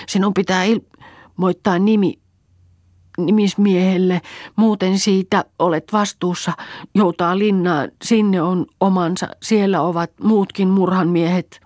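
put-on angry old woman. A narrator's reading. Old woman ordering Pentti to the sheriff, high bitter voice. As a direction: spit the order out.

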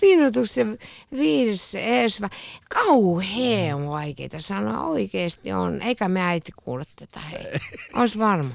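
put-on mildly slurred, giggly tipsy teenager; drunk teen. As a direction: stumble through the words like a drunk teen. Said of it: "lukisit humalaisena teininä".

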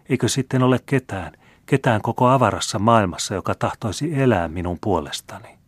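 a playful, teasing noblewoman; a hint of a coquettish marquise. Marquise voiced in story.

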